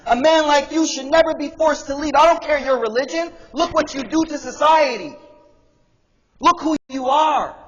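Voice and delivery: high, driving sermon delivery; impassioned preaching. Real, not acted. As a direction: preach with rising force, punching key words. Preaches at full force.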